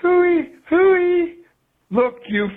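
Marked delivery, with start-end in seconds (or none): 0.0-1.4 high, loud mocking "hooey, hooey"; mock a pundit's silly catchphrase; mocking imitation. Caller mocking Mister Curry's catchphrase in a higher, louder voice. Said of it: "that Mister Curry keeps saying".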